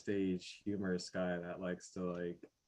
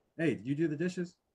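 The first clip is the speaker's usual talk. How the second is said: raised, pushy, half-aggressive, half-accusing tone; 8 semitones higher, 5 dB louder than usual. Describing how people ask about the dishes, the speaker imitates a half-aggressive question. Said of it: "kind of like half half aggressive".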